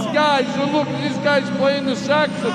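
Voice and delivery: loud, high New York street voice; hammy Brooklyn guy holding court; New York accent. Pretend. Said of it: "this guy's from New York".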